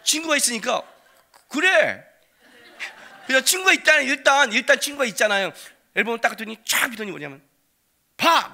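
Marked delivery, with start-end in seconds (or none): 1.5-2.0 grudging loud yes. Retold or imitated. Father forced to comply. 8.2-8.5 high, loud "look!"; triumphant shout. Retold or imitated. Son showing the album.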